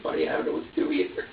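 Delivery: low, fast whisper of helplessness; whispered despair. Retold or imitated. A mother retelling what she whispered to her screaming baby, whispering. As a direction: breathe it out, at a loss. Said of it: "And I'm like".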